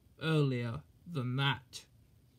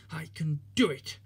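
panting. Acted. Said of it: "he panted".

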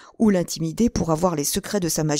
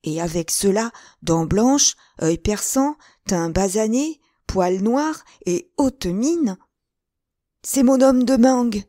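building from eager to a high, loud, slow cry; piling up the clues, then triumphant; excited outcry; 5 semitones higher, 5 dB louder, slower than usual. Acted. D'Artagnan realizing it is his enemy, rising to a loud cry. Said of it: "s'écria d'Artagnan".

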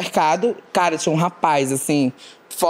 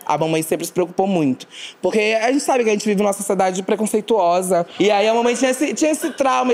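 normal talking voice

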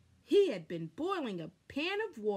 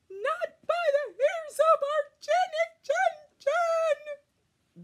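very high, loud squeaky pigs; little pigs refusing the wolf; squeaky pig reply; 10 dB louder than usual. A narrator's reading. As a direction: squeal it back defiantly. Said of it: "the pigs replied".

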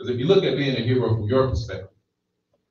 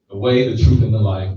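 louder, proclaiming preacher; forceful scripture quote; 6 dB louder than usual. Real, not acted. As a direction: thunder out the verse. Quoting Jesus at full force.

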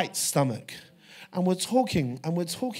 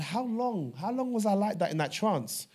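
high-pitched, disbelieving retold question; astonished question; 5 semitones higher than usual. Preacher re-enacts waking from trance, astonished questioning. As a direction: ask it pitched up, taken aback.

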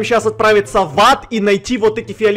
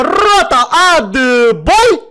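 shouting drill sergeant; 7 semitones higher, 5 dB louder, much slower than usual. Acted. Commanding the soldiers drill.

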